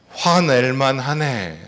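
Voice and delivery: slow, gentle "화낼만 하네"; empathetic phrase demo. Shown as a demonstration. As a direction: say "화낼만 하네" slowly and kindly. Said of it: "따라해보세요". (천천히 공감하며 "화낼만 하네")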